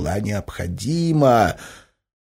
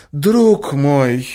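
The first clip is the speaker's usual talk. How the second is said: raised, tender appeal; painfully soft-hearted; 7 semitones higher, 7 dB louder than usual. A narrator's reading. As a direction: address him as a suffering friend. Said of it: "Голос Марьи Александры был болезненно мягкий". (болезненно мягко, ласково)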